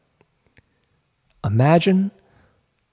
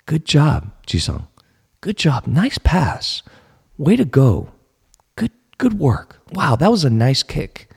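compassionate self-talk; 5 semitones higher than usual. Retold or imitated. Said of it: "talking to himself compassionately".

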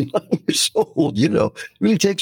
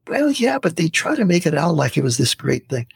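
upset dentist; 4 semitones higher than usual. Retold or imitated. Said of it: "upset dentist answers back".

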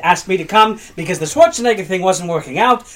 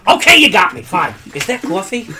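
bad Danny DeVito. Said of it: "the worst Danny DeVito I've ever heard".

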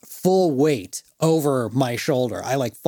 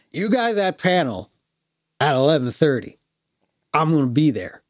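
lightly imitated drunk, emphatic and broken up; drunk fan. Drunk fan promising to attend a panel, lightly slurred insistence. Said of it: "X amount of drinks".

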